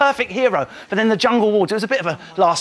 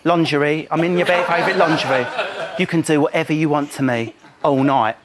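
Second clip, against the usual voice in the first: lower, sultry-ish with laughs; mock Lauren; 4 semitones lower than usual. Mocking Lauren offering Mark a sexy night, lower and laughing.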